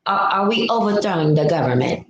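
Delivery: put-on faint stab at an English accent; badly faked, half-hearted English accent; attempted English accent. Host retrying a line for the chat, half-hearted English accent. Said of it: "I wish I can do accent".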